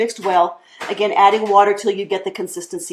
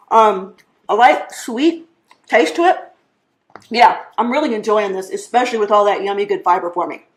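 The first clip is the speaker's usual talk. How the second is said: mouth full. Real, not acted. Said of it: "Talking with my mouth full".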